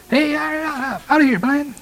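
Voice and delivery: high-pitched, hammed-up yell; shepherds' mere shouting. Puny shepherds yelling at a lion that won't budge, mock shouting. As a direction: ineffectual mock hollering at a lion. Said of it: "That's just a mere voice".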